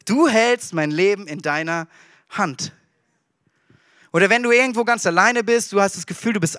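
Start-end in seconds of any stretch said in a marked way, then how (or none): 0.0-2.7 soft thankful prayer, lower; hushed trusting prayer to the Lord; calm quiet prayer. Acted. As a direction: pray it gently and softly. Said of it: "dann kannst du sagen".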